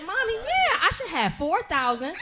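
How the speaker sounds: put-on high, excited kid voice shouting the sum; a child proudly announcing her savings; mimicking her daughter. Daughter tells mom her bank balance, excited high kid voice.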